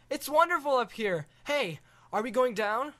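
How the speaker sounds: put-on wide-eyed kid, high; awed boy. Boy marvelling at the view from the dragon.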